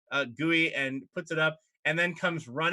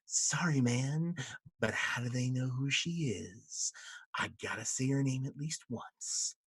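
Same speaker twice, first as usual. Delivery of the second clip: laid-back imp; 5 dB quieter than usual. Acted. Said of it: "He goes".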